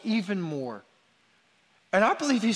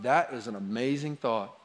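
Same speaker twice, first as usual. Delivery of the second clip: lower, slightly softened parental reply; gentle affirmation; 5 semitones lower, 4 dB quieter than usual. Acted. Parent answering a child's off-the-wall idea, gently affirming. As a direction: take the child's idea seriously, low and easy.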